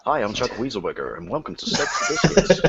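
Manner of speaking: mock American presenter; American accent. Englishman introducing a fake show, mock American accent. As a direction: put on a hammed-up American host voice. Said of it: "See, American accents".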